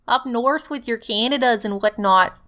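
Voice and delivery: light mock Canadian accent; fake Canadian accent. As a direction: tease with a folksy Canadian accent. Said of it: "do the fake Canadian accent".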